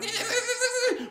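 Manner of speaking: rooster squawk. Acted. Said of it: "the cockerel flew up ... and went".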